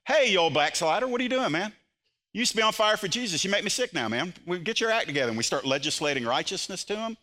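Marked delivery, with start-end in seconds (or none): 0.1-5.3 mock scolding, high and loud at first; hammed-up self-righteous rebuke; guns blazing. Preacher imitating a harsh Christian scolding a backslider, mock angry. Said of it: "come in there guns blazing".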